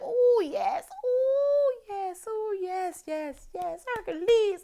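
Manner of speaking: high, swooning squeals of yes; drawn-out, high-pitched ecstatic oohs; overjoyed. Retold or imitated. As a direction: re-enact a delighted fan clutching her chest. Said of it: "I was so happy".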